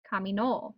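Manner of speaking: "caminó" with the weight on the final "nó"; stress on last syllable. Shown as a demonstration. Teacher demonstrating past tense, "caminó" stressed on last syllable. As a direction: land on the accented end of "caminó". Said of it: "our stress wherever the tilde falls".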